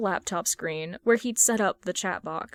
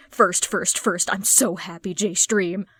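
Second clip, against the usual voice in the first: loud, eager first-comment cheer; excited fan; 4 dB louder than usual. Acted. Chat fan bragging about being first, loud and eager. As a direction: shout it like you beat everyone there.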